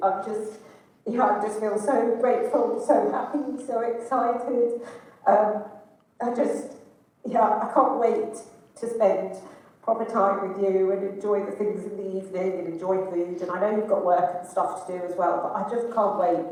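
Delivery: tearful, emotional voice, crying while talking. Leaving a voice message for her son about a trip: crying while talking. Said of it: "as you can hear, I'm loving like a baby".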